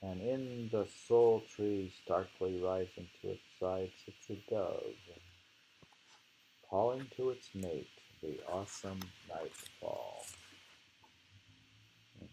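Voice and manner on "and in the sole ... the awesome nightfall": poem recitation. Acted. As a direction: savour each image as you recite.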